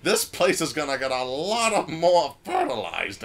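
lightly voiced creaky old man; a hint of a grumpy old geezer. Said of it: "old man".

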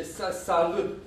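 lightly voiced stammer, repeated first syllables; stuttering Dudu. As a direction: stumble over the starts of words. (bâlbâială ușoară a lui Dudu)

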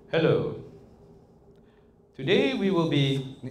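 exaggerated stilted lecture opening; boring professor. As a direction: stretch each word like a dull lecturer. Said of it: "unless you're a really boring professor".

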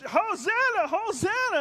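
high, loud hosanna cheer; shouting praise. Retold or imitated. Preacher voicing the crowd praising God, loud and high. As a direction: lift it like a crowd in the street. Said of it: "And they were just shouting".

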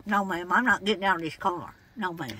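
put-on cranky old lady voice. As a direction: play a stubborn old woman customer. Caller holds an old lady voice.

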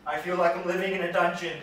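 anguished lament of loneliness; anguished plea. Acted. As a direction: throw the lament out.

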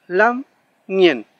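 lam and ñen with ng as a single nasal; one sound ng. Shown as a demonstration. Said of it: "La N G se pronuncia como una sola consonante".

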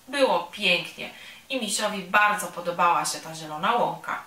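usual speaking voice

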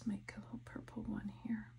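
softly absorbed in the work; hushed, half to yourself while concentrating; quiet, thinking. Real, not acted. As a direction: murmur it as if thinking aloud. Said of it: "I start talking very quietly when I'm".

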